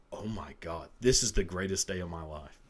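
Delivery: put-on sudden delighted shout of a kid; thrilled shout. Boy at church devil skit, thrilled shout. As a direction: shout it like the best day ever.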